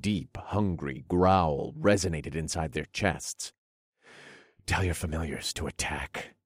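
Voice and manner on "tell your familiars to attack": low, soft order; under the breath. Acted. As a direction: murmur the command quietly. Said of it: "I ordered under my breath".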